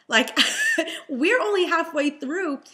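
high burst of laughter mid sentence; giggling while complaining; laughing. Real, not acted.

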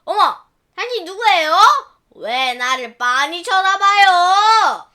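wife startled by the woman in the mirror. Acted. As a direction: demand who she is, alarmed.

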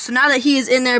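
ordinary talk

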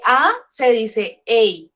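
first A as Spanish "ah", second A as English "ey"; English vowel name. Shown as a demonstration. Teacher showing students English vowels, A as "ah" then "ey". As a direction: slowly contrast A "ah" with A "ey". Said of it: "Pero en inglés no".

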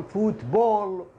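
فوتبول said slowly, fut-bol, rounded vowels; model word. Shown as a demonstration. Teacher repeating football slowly for students. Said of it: "كرة القدم".

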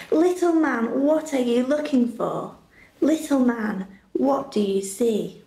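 sing-song rhyming read-aloud, gentle and rhythmic; story narration. A narrator's reading. Presenter reading a rhyming Bible story to the youth group, lilting storybook voice. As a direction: read the rhyme to children like a bedtime story.

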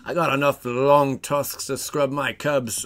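slow, lightly attempted Australian accent; a hint of Australian, taken slow. Streamer tries an Australian accent for a viewer, slowly and lightly. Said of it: "I can kinda go a little down under".

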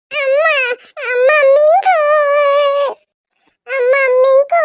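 whiny wail with drawn-out endings; acted childish crying complaint; tearful wailing. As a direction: wail to mum, stretching each last word. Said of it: "அவ அழுவுறா".

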